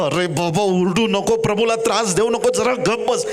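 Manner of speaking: disciples shushing a noisy beggar; scolding hush. Acted. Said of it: "शिष्य त्याला दटवायला लागले".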